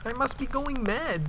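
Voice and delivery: quiet inner thought. Acted. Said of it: "he thought".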